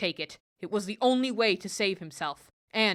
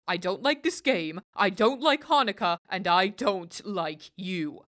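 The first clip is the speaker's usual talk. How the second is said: sulky goblin. Acted. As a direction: spit out each dislike. Goblin grumbles.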